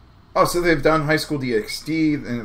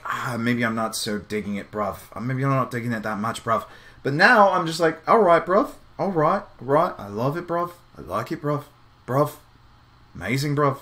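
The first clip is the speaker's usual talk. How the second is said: a lightly put-on British accent, slang-heavy; playing a London lad saying bruv; mock British accent. Reacting to the anime art, in a hammed-up British accent. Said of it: "I'll just drop the British accent".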